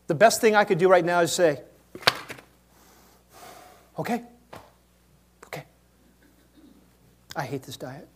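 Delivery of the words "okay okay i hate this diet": grudging surrender. Retold or imitated. Reluctant yield, soft.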